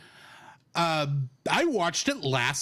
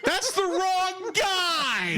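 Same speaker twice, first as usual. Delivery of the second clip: laughing exclamation; much slower than usual. Real, not acted. Exasperated correction of cohost.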